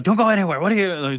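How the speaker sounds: barking cops. Retold or imitated. Cops close in on Miriam, shouting a mock order. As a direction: bark it like a cop closing in. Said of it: "what do they say? Like".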